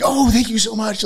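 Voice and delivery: mock polite gushing; sing-song inflection. Shown as a demonstration. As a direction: gush it up high and bright. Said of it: "when I thank somebody, like".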